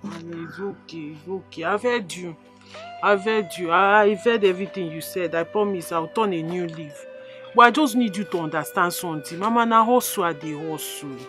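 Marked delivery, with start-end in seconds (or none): 0.0-7.0 calm her down gently. Acted. Daughter soothing her crying mother.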